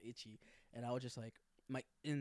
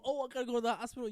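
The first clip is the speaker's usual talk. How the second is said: higher, fast, laughing mock whine; 8 semitones higher, 6 dB louder, faster than usual. Mocking the roommates who claim allergies, in a laughing whine. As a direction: parody the drama queen. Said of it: "mocking allergic roommates".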